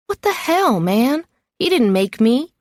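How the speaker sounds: sharp, high outraged protest; indignant protest. Acted. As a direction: push back hard, offended. Tony protests being benched.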